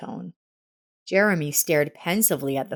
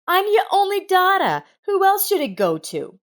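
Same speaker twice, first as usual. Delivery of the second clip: much higher, louder indignant disbelief; a daughter shocked she might lose the house; stunned, raised protest; 14 semitones higher, 4 dB louder than usual. A narrator's reading. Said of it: "Rita was shocked".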